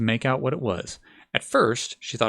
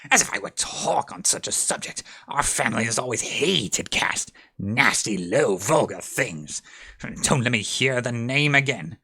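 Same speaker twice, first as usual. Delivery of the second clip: trembling indignant. Acted. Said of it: "cried the mouse, trembling".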